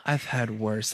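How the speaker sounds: understated imitation of an unimpressed hero; unfazed line reading. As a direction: shrug it off quietly, mock tough. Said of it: "Great line reading".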